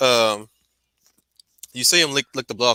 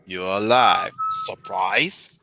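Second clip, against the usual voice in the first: Sith lord voice; 3 semitones higher than usual. Pretend. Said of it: "Master Yoda".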